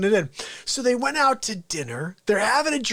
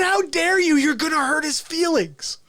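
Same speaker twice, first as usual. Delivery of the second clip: offended Fauci; 6 semitones higher than usual. Retold or imitated. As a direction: take mock offense for your invisible friend. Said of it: "He said".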